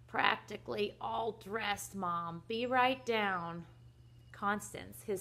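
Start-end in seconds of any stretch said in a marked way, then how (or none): 0.1-3.7 slow, drawn-out sleepy reply; lightly acted sleepy child; sleepy call. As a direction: call back drowsily from under the covers. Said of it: "called out sleepily".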